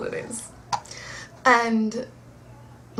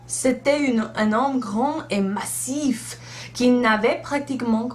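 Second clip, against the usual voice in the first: slow, careful reading of a French book; reading aloud in French. Acted. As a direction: read the book out slowly. Reads Harry Potter in French.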